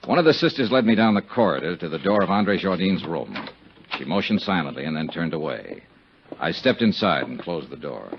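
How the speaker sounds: dry detective voiceover, even and wry; hard-boiled narration. A narrator's reading. Investigator recounts his legwork to the listener, dry noir narration. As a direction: tell it like a tired private eye.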